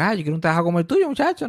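fast mock customer voice rising at the end; envious customer. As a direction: rattle it off like a customer who thinks the job is easy. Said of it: "le encanta decirme como que".

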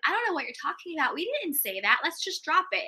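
quick, lightly acted playing innocent; mock denial. Two-faced friend denies gossiping when the person returns, mock denial.

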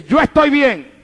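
imitating a man answering out loud; retold loud reply. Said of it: "él me habló en voz alta". (respuesta en voz alta, imitada)

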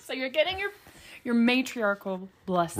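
breathy whispered phrase. Acted. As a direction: whisper it mysteriously.

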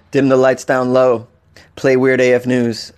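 low, smooth mock seduction; jokey sultry command to a smart speaker; mock sexy R&B voice. Turned this into a sexy R and B.

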